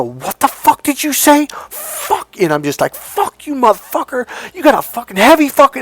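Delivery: high-pitched angry cursing, held back in volume; retold screaming. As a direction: re-enact cursing someone out at the top of your range. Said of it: "I'm just screaming at this guy".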